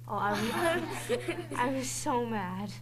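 slow, laughing through the words. Real, not acted. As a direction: laugh it off while telling it. Laughing while retelling anger.

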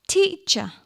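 teacher in two separate syllables, high start; syllable demonstration. Shown as a demonstration. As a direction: say teacher as tea, cher. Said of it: "How many syllables?".

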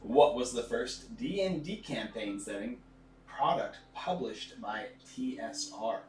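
slow, deliberate quiz host read; announcer voice. Acted. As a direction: read it out like a game show host. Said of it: "my strong announcer voice".

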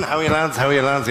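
casual front. Retold or imitated.

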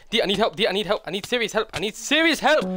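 high, loud call for help; shouting for help. Real, not acted. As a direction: yell to the teammate urgently. Calling teammate for help in fight.

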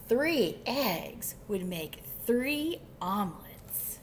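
emphatic picture-book reading; lively storytime narrator; story narration. A narrator's reading. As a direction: read to children, stretching the key words. Reads picture book aloud.

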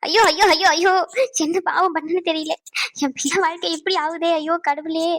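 anguished cries of lament; tearful wailing. Acted. Mother begging God to spare her child trouble, wailing. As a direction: wail and plead with God, dragging the last words. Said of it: "இந்த மாதிரி ரொம்ப அழுகாதீங்க".

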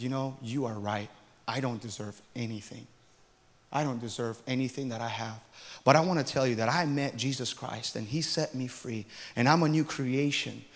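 man answering the clerk, sincere and quiet; humble sincere confession. Retold or imitated. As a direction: confess quietly, then share the faith. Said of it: "It was like a preaching session".

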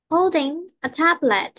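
slow model reading with "tablet" standing out; clear key word. Shown as a demonstration. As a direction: say it slowly and firmly, making "tablet" clear. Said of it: "Chúng ta chỉ nghe rõ được cái từ tablet".

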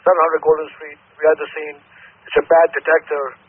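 firefighter over the radio; clipped radio call from a truck; urgent firefighter radio. Real, not acted.

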